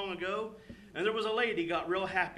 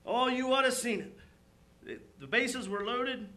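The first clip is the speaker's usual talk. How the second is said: mildly imitated excited baseball fan; lightly acted fan excitement; excited retelling; 4 semitones higher, 4 dB louder than usual. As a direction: relive the game for a listener. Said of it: "he just got all excited".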